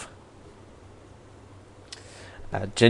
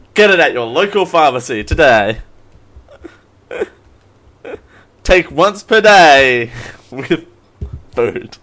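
ad read; 4 dB louder than usual. Pretend. Mock drug commercial.

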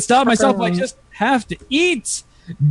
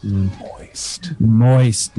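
echo voice; 11 semitones lower than usual. Pretend. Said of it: "Are you doing the echo?".

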